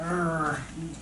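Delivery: imitated grunt of a grumpy husband; grumpy growl. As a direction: let out a mock grumpy grumble.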